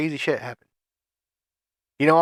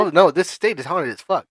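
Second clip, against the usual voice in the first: sassy; 4 semitones higher, 5 dB louder than usual. Real, not acted. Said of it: "sass and attitude in your eyes".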